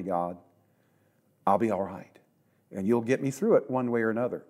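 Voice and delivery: hushed sincere prayer to the Lord; quiet trusting prayer. Retold or imitated. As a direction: pray it low and quietly, in respect. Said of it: "go to God in fear and respect and say".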